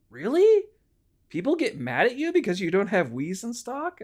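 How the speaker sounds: high, astonished "Really?"; a kind customer, honestly amazed; surprised. Retold or imitated. Kind customer amazed at how clerks are treated, surprised. Nice customer shocked by mistreatment.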